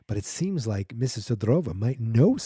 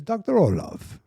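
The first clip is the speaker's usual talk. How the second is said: much higher, put-on sinister greeting; villainous doctor voice; 6 semitones higher than usual. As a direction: purr the welcome like a cold villain. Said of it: "I can't help but do the voice".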